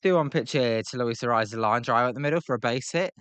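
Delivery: lifted, lively baseball call; play-by-play commentary. Pretend. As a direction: call the hit like a broadcaster. Mock live play-by-play of the game.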